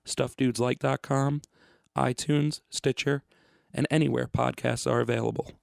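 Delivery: measured podcast promo read; announcer read over music. Real, not acted. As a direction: read out the show details clearly. Recorded show information read.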